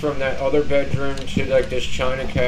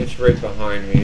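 usual speaking voice

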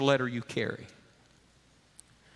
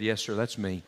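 ashamed admission; 5 semitones lower than usual. Acted. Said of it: "Onesimus hangs his head".

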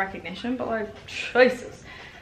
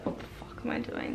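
whispered quote; 10 dB quieter than usual. Retold or imitated. Quoting her own despair.

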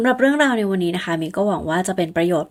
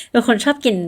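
laughing; 6 semitones higher, 4 dB louder than usual. Real, not acted. Laughing about loving food.

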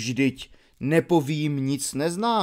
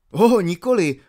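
sudden louder, higher protest; exclaiming; 4 semitones higher, 5 dB louder, faster than usual. A narrator's reading. Kota protesting to Krasus, exclaiming louder. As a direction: burst out in eager refusal. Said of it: "zvolal Kota".

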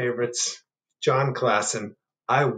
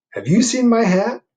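bear voice; 12 semitones higher, 9 dB louder than usual. Acted. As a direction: ask like a lost, patient bear. Bear asks again.

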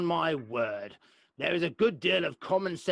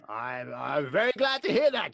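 blustering hearty praise. Acted. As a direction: bluster out your delight. Old lord blustering congratulations.

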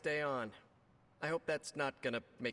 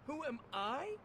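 hero voice; 7 semitones higher, 6 dB louder, faster than usual. Acted. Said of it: "Practice their hero voice".

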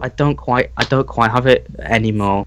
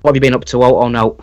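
northern English accent; faster than usual. Shown as a demonstration. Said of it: "Wait, say that again".

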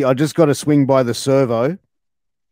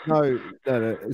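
usual speaking voice

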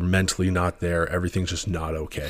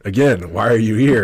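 louder, higher exasperated disbelief; incredulous; 4 semitones higher, 9 dB louder than usual. Retold or imitated. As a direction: ask it again, exasperated. Repeated incredulous question.

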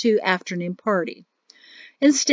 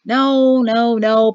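cringing; 2 semitones higher, 6 dB louder, much slower than usual. Acted. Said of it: "Perrin cringed".

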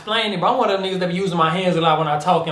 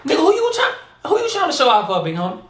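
higher, laughing tease; teasing; 8 semitones higher than usual. Real, not acted. Teasing the rapper about showing off, amused. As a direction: poke fun at him while laughing.

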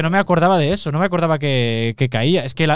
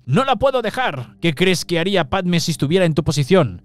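high, pleading dramatic protest; Anakin; 4 semitones higher than usual. Acted. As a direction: act out a desperate refusal, pitched way up. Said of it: "tiene la voz así un poco aguda".

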